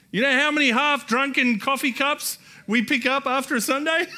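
high, loud exasperated outburst; exasperated shout. Real, not acted. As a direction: let the frustration burst out.

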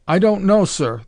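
high, loud, bewildered reply; bewildered cook. A narrator's reading. Cook answering his impatient commander, high bewildered voice. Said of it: "The cook's stammering voice came back".

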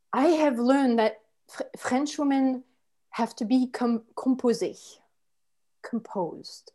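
put-on French accent, settling into a near-whisper; forced calm. Frenchwoman explains staying composed, increasingly soft French-accented calm. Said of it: "take a moment to calm down".

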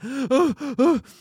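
high, loud panicked gasp. Retold or imitated. Girl hyperventilating in waiting room. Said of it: "starts hyperventilating".

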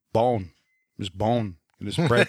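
lightly mimicked actor, low with no Italian accent; mock an actor's accentless Italian, low; Robert De Niro. Co-host mocking the actor's lost Italian accent, light impression. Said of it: "It's just De Niro saying words".

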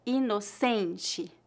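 "inocente" slowly and softly, weight on CEN; stress on penultimate. Shown as a demonstration. Teacher showing learners the tonic syllable, stress on penultimate. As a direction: stretch "inocente" as ee-no-SEN-chee. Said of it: "a sílaba tônica dessa palavra é a penúltima".

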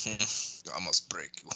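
slow, low, quiet menacing boxer; Rocky IV boxer. Retold or imitated. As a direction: do the cold Rocky IV fighter line. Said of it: "what's his name from Rocky Four".

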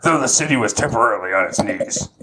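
measured dramatic reading; Jocko Willink. Acted. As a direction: deliver it as a weighty war-story line. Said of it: "You've gotta read this like Jocko Willink".

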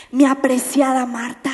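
lightly voiced loving Jesus, no reproach; tender, not scolding. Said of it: "No la estaba regañando".

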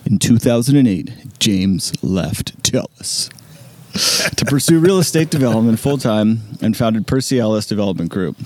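measured radio announcer read. Pretend. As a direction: read the bio like a radio host. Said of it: "that radio voice is just ridiculous".

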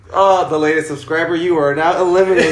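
lightly voiced elimination announcer; loud, playful pronouncement with a hint of announcer; mock announcer. Plays announcer eliminating a subscriber.

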